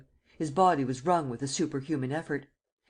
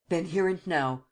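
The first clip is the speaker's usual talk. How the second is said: shouted; 3 semitones higher than usual. Acted. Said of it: "shouted Sernine".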